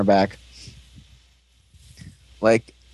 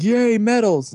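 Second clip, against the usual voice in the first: mock glee; 9 semitones higher, slower than usual. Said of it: "And Yuva's like".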